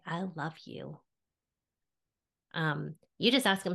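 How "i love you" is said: very soft, tender and moved; tearing up. Real, not acted. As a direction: speak love quietly, close to tears. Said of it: "I'm tearing up".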